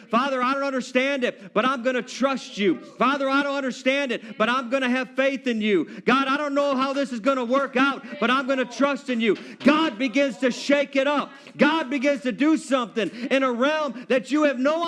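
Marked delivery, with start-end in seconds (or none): 0.1-9.4 earnest declaration. Retold or imitated. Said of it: "you begin to declare".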